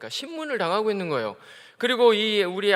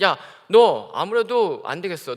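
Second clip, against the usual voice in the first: stern threat; 6 dB louder, slower than usual. Acted. Crowd threatens arrest.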